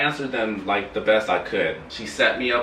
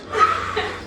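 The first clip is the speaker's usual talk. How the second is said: short voiceless puff of breath; mimed hit, breath only; demonstrated smoking hit. Shown as a demonstration. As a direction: act out taking a hit with the breath. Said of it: "I go like this".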